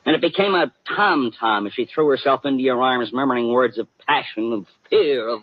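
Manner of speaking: a hint of a pulp private eye narrating his own story; hard-boiled detective. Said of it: "you are not Sam Spade".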